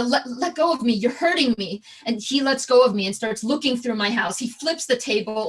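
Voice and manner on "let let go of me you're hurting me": retold yell. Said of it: "And I yell".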